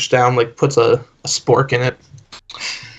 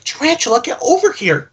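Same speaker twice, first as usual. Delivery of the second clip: mock yelling; 12 semitones higher than usual. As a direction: holler over at a straggling kid, voice pitched up. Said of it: "yelling, like".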